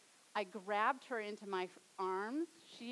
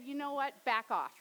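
mock lashing out; 5 dB louder than usual. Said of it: "lashed out and said".

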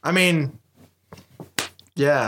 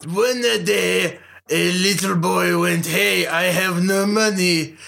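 mock Japanese accent. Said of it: "I'm losing the accent".

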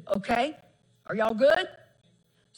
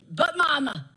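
louder mock whine of but Mama; imitating son's protest; 3 dB louder than usual. Mother imitating her son's back talk, mock whine. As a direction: whine it like a grown son talking back. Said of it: "He's still".

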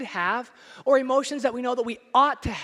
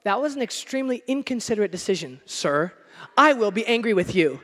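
mock polite driver; 3 semitones lower than usual. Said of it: "you don't go".

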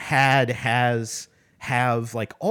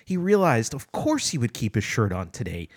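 sarcastic inflection. Shown as a demonstration. Reader pointing out the book's deficiencies, sarcastic inflection. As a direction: read it as an absurdly obvious revelation. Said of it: "with my own sarcastic inflection there".

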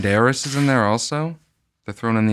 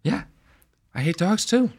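movie star voice; 9 semitones higher, 3 dB quieter than usual. Pretend. Mock actor in dog movie.

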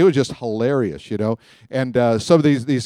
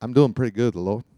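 Louisiana accent; 2 semitones lower than usual. Shown as a demonstration. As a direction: say it like a Louisiana churchgoer, lightly. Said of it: "let me say it in Louisiana".

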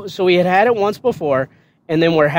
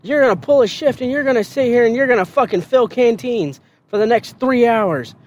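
mock drill sergeant scolding; 7 semitones higher than usual. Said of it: "he was like".

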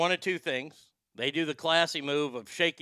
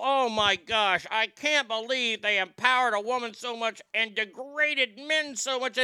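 mocking critics; 5 semitones higher than usual. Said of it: "hearing these fucking people".

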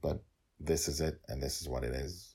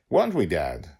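put-on louder child's voice asking Dad; little girl asking; 3 semitones higher, 9 dB louder than usual. Girl asking father, louder child voice. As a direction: nudge Dad like a small girl.

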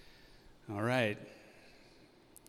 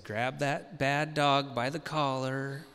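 imitating wife. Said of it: "your wife would say".

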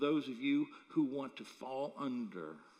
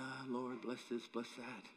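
tag along prayer; 2 semitones lower, 8 dB quieter than usual. Retold or imitated. Acts absent-minded prayer while jogging.

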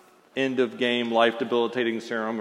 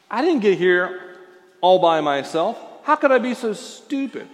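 self-reproach; 6 semitones higher, 5 dB louder than usual. Retold or imitated. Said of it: "like David could have possibly done this".

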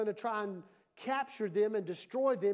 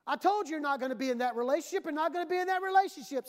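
stern parent; 5 semitones higher, 4 dB louder, much faster than usual. Acted. Parent forbidding a relationship.

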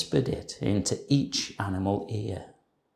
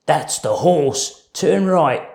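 whispering thief; 5 semitones higher, 5 dB louder than usual. A narrator's reading. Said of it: "and Len said".

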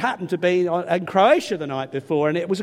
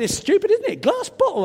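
blunt remark; 12 semitones higher than usual. Retold or imitated. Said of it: "I said".

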